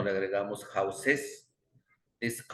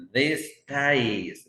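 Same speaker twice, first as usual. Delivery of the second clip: these said higher and loud; stress on these; 5 semitones higher, 6 dB louder than usual. Shown as a demonstration. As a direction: lean on the word these. (these con énfasis y más agudo)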